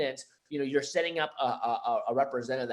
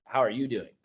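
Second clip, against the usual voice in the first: sincere check-in; 3 semitones lower than usual. Shown as a demonstration. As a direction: ask it like you genuinely care. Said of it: "No, no, no, like".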